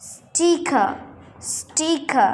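"স্টিকা" ending on a vowel, no r; careful model "স্টিকা", r dropped; silent final r. Shown as a demonstration. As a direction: say "স্টিকা" with plain t, aspirated k. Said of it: "উচ্চারণ না করলেও চলবে".

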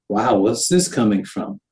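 puzzled inner voice. Retold or imitated. Voicing her own puzzled inner thought.

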